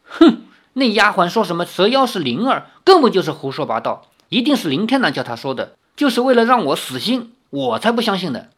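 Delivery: mildly indignant grumbling; angry. Acted. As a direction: huff and refuse to believe it. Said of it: "越想越是生气".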